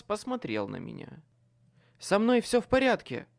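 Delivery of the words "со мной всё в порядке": gasped out, high and loud; breathless exclamation. A narrator's reading. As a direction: push it out in pain. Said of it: "выдохнул он".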